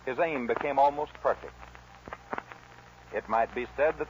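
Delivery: measured dramatic radio narration; old-time radio storyteller; story narration. Acted. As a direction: tell the outlaw's tale to the listeners. Narrates the Billy the Kid tale.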